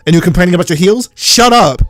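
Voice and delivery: hammed-up indignation, leaning slowly on key words; mock scolding. Viewer berating the mum for complaining about heels, mock scolding.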